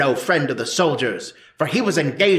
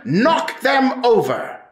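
raised and slowed battle cry; slow urging shout; 6 semitones higher, slower than usual. Acted. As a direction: drive the crowd on.

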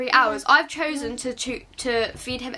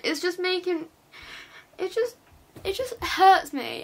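real hurt and upset; 5 semitones higher than usual. Real, not acted. Teen mum telling viewers how hateful comments affect her, hurt and upset. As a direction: break off and restart, close to tears. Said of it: "sat here crying upset".

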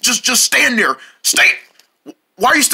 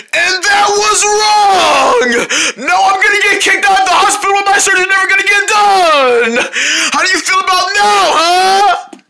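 angry ranting; 7 semitones higher than usual. Acted.

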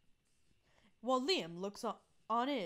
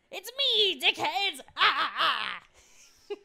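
high, loud taunting yell; lightly voiced bratty girl yelling; gleeful villain entrance; 5 semitones higher, 9 dB louder, slower than usual. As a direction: burst in crowing at the rivals. Villain character bursts in.

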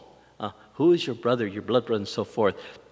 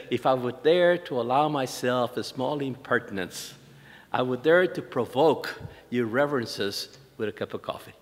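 slow formal translation. Retold or imitated. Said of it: "But she said".

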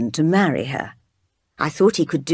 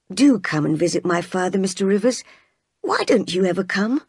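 put-on lively young lady; 3 semitones higher than usual. Miss Oliver invites St. John.

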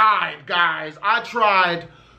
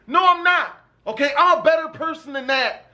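defensive; 6 semitones higher than usual. Retold or imitated. Insisting he is a better person.

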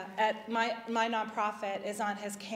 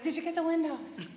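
asked through laughter, higher; laughing question; 6 semitones higher than usual. Retold or imitated. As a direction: giggle the question out. Women's group laughing at story end.

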